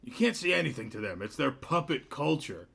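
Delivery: a tiny piping voice for a big man, dragging the name out; mismatched mayor voice. Acted. Mayor greeting Cliff, in a squeaky, booming voice. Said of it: "voice does not match his stature".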